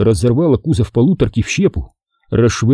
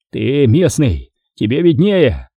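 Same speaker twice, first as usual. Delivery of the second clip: mild grumble; 2 semitones higher, slower than usual. Acted. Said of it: "проворчал старшина".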